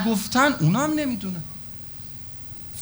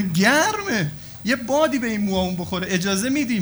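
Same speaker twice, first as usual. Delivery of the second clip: higher, pleading woman's voice complaining to God; a woman protesting to God in a raised, pleading voice; 4 semitones higher than usual. Acted. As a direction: voice a woman demanding fair blood money from God.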